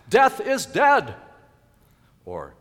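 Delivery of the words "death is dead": loud, high, slow proclamation; full-force pulpit cry; triumphant shout. Acted. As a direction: shout the victory with each word stretched. Preacher proclaims Lazarus's victory cry.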